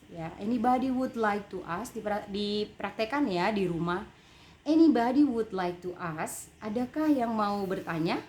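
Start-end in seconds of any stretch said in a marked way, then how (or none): 0.4-1.9 "ask" lifted at the end as a question; questioning intonation. Shown as a demonstration. Teacher repeats the question for practice at home, questioning intonation. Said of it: "Intonasi ber- bertanya berbeda dengan intonasi". 4.7-6.5 louder question, "anybody" punched, "ask" rising; questioning intonation. Shown as a demonstration. Teacher models asking the audience for questions, questioning intonation. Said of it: "Intonasi ber- bertanya berbeda dengan intonasi".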